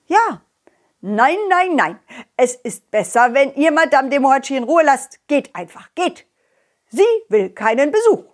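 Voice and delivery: rooster character. Acted. Rooster sends visitors away.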